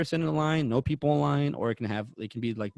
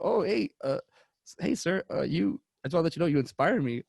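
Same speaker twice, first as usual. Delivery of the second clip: higher, stammering fan greeting; stumble, then rush out the compliment; retold starstruck excitement; 5 semitones higher than usual. Fan meets his idol at convention, nervously excited. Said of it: "you get excited".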